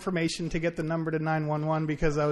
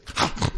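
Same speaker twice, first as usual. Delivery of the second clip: mock snap; 4 dB louder than usual. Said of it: "So he snapped at me".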